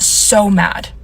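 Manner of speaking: "so mad" drawn out slowly; storyteller recalls the nail tech's anger, "so mad" stretched slowly for emphasis; stress on SO MAD. Real, not acted. Linger on "so mad". Stressing how angry the tech got.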